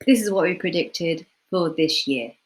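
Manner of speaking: steady, even delivery at work; confident presenter. Shown as a demonstration. Presenting results at work, confident and even. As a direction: state the forecast firmly. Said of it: "a confident speaker would be like".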